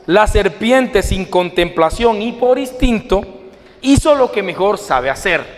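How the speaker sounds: measured, deliberate storytelling with weighted phrases; parable narration. A narrator's reading. Preacher tells the congregation a parable about a woodcutter, story narration.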